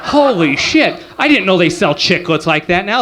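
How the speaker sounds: a startled "Holy shit", then a mock-surprised question; mock surprise. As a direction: play fake amazement at the dealer. Mock panhandler deal surprise.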